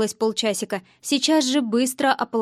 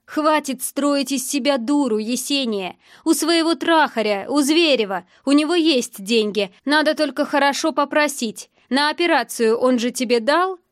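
heated, pressing accusation; angry tirade; 3 semitones higher, 3 dB louder than usual. Acted. Angry boyfriend pressing her to beg another man, heated. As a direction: push her with scornful insistence.

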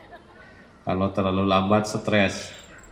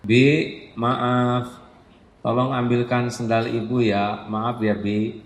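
polite request. Shown as a demonstration. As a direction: ask kindly, with apology. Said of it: "Enak tidak?".

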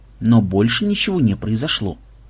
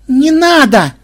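high loud cry to stop; panicked shout; 12 semitones higher, 7 dB louder, slower than usual. Acted. Panicked woman stops the shooting. (испуганный крик)

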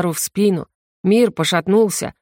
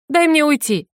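pleading to leave; 8 semitones higher than usual. A narrator's reading. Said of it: "Она отвернулась".

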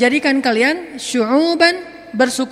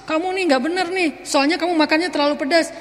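mock scolding; 4 semitones higher than usual. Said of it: "nggak usah histeris".

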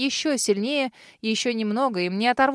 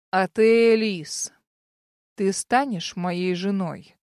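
firm demand; 3 semitones lower, slower than usual. Acted. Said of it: "Твёрдо повторил он".

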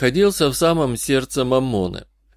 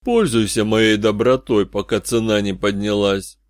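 haughty. Acted. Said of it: "Оракул вновь стал высокомерным".

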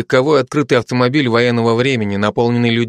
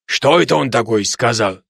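put-on Georgian accent. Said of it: "каждый со своим акцентом".

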